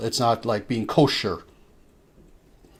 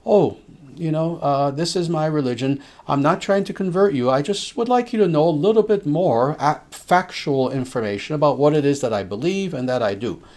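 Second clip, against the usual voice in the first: gently raised, friendly pitch, no pressure; kind and humble; 4 semitones higher than usual. Pretend. Sharing your faith humbly with a family member, kind and gentle. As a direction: reassure a relative you're not converting them. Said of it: "if you very kindly and humbly say".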